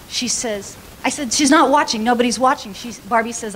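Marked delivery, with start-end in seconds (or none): 1.3-2.7 excited scheming. Retold or imitated. Pastor sneaking the bag.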